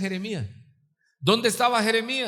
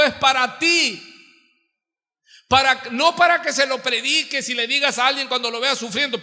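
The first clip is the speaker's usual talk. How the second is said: preaching at full force; 4 semitones higher, 5 dB louder than usual. Real, not acted. Predica con fuerza.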